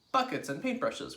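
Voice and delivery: loud, high call for supplies; excited cry. A narrator's reading. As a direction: call it out to the team. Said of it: "cried Mugglewump".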